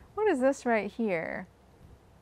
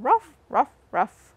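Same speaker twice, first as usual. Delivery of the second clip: louder playful woof-woof bark; dog barking; 4 semitones higher, 8 dB louder than usual. Retold or imitated. Farm dog for the kids, a louder playful bark. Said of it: "dog in the barn saying".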